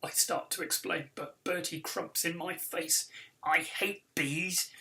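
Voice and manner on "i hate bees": hissing. Acted. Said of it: "he hisses".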